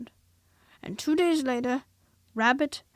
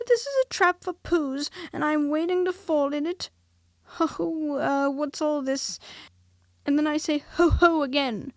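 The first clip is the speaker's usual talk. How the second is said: higher squeaky gabble, a bit louder; quick squeaky Piglet; 6 semitones higher, 6 dB louder than usual. A narrator's reading. Piglet unsettled before Christopher Robin, high squeaky nervous voice. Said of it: "very quickly and squeakily".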